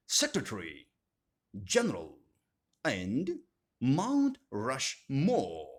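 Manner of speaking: "secretary, general" and "Mount Rushmore" with weight beyond the first word; don't favour the first word, give GENERAL and RUSHMORE their full weight; stress off first part. Shown as a demonstration. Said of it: "we disregard this rule".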